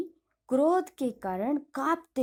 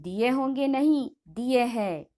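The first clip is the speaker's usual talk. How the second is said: stern. Acted. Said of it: "गृहस्वामी कड़े स्वर में कहते हैं".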